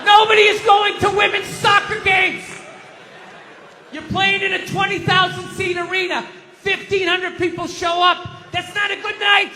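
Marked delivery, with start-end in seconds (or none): 0.1-6.2 yelling at the TV. Retold or imitated. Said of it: "screaming at the T V".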